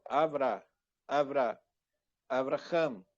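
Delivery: Avra clipped short before Avraham; quick short first syllable. Shown as a demonstration. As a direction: model the short vowel, then the whole name. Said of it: "aqui é breve".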